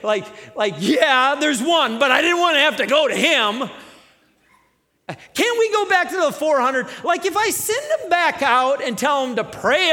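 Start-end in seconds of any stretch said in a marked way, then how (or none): 0.8-6.9 a lightly voiced reluctant whine; half-hearted grumble about going; whiny king. Ahab grudging to Jehoshaphat, a light whine. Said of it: "That's like a, like".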